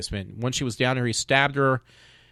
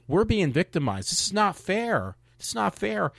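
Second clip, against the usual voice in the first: mocking whiny complaint; 6 semitones higher than usual. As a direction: whine it out like a sulky kid mocking their complaint. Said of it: "now all of a sudden they're crying like".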